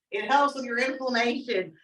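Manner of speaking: put-on lightly twanged Southern country accent. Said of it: "I get this country accent".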